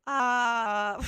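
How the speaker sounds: heavily distorted effect voice. Shown as a demonstration. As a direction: go fully distorted. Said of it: "I can make it go really distorted".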